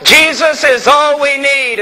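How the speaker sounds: put-on a mildly excited young fan; excited young man. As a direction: mimic his enthusiasm. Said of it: "he was all excited".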